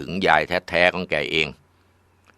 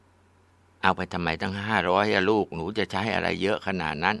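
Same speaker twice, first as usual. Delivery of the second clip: gentle mother; 6 dB quieter, slower than usual. Acted. Mother questions the daughter gently.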